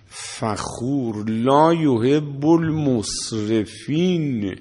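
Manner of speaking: slow, drawn-out chanted verses; slow measured Arabic chant; Quranic recitation. Acted. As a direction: intone each verse like a reciter.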